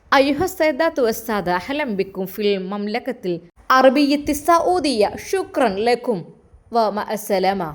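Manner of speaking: a lightly voiced air hostess reading Arabic; Arabic announcement. Air hostess welcoming passengers in Arabic, light announcer voice. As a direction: announce it in Arabic like cabin crew. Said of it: "അറബിയിലും അതാ air ഹോസ്റ്റസിൻ്റെ ശബ്ദം".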